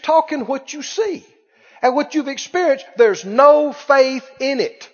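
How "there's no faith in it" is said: slow, loud, hammered preaching; preacher pressing the point hard; emphatic preaching. Acted. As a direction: punch each phrase slowly. Preaching at full force.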